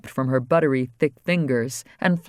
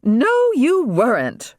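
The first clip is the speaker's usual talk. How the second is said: firm; 10 semitones higher, 5 dB louder, much slower than usual. Acted. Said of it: "her mother firmly interrupted".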